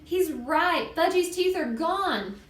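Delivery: high, drawn-out horrified wail; acted girlish shriek, held back in volume; screamed dismay. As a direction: wail the terrible discovery. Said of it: "Sheila screamed".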